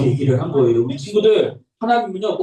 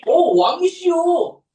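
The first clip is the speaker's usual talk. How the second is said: higher, louder, eager approval; cheerful prophet Nathan; 12 semitones higher, 4 dB louder than usual. Acted. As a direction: prophet happily blessing the king's plan. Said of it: "라고 했는데".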